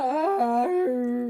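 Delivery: long, high, loud yeah; loud yell. Real, not acted. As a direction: belt it out.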